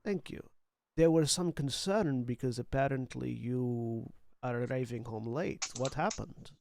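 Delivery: put-on light Macedonian accent. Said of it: "allowing my Macedonian accent to slip back in".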